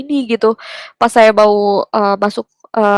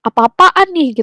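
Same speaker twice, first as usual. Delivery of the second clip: higher-pitched mock indignation; retold anger; 5 semitones higher, slower than usual. Younger brother confronting the speaker about the decision, retold anger. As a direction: imitate an annoyed sibling's protest. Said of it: "Terus dia sempet marah".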